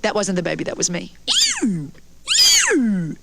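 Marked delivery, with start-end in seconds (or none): 1.6-3.2 low, drawn-out whale call; whale impression. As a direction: moan like a whale. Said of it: "my impression of a whale".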